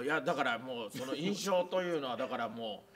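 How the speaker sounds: stumbling over filler words while trying to explain; tongue-tied rambling. Real, not acted. Gushing fan to the drama actor, tongue-tied. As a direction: trip over your words, never reaching the point. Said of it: "噛みすぎて分かんないです".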